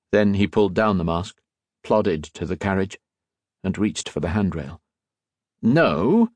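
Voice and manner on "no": chiding. A narrator's reading. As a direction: rebuke him sharply. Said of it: "Mister Socrates chided".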